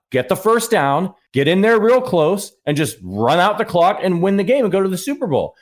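insistent urging. Retold or imitated. Fan coaching the team in Discord, insistent urging. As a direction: urge them on as if it's obvious. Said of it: "I was like".

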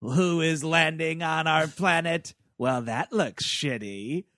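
slow, deadpan little robot head. Retold or imitated. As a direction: drawl it out like an unimpressed alien robot. Robot head pops up on moon.

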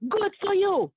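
put-on the girl from Germany hollers at the sore loser; hollering. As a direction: yell it across at the rival as the German girl. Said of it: "she started hollering at her".

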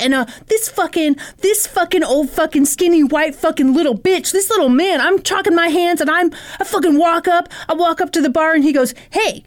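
lightly voiced worked-up complainer; the speaker's vlog rant. Retelling his gym dispute on camera, mildly ranting. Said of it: "here's what he says".

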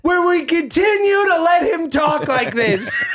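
lightly hammed-up Memphis crooner; Austin Butler voice. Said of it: "Austin Butler's voice".

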